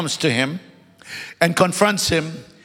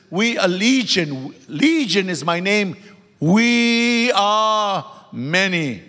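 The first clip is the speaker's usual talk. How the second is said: ominous demon voice; much slower than usual. Acted. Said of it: "listen to this".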